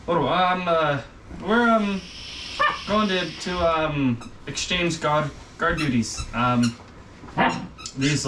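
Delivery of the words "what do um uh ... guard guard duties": a little shocked. Acted. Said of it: "they look a little shocked at you".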